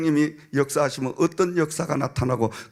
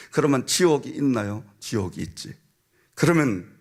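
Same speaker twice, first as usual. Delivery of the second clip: ordinary delivery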